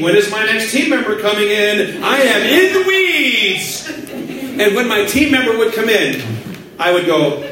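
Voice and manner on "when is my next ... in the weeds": mock overwhelmed panic. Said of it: "I'd be watching the clock thinking".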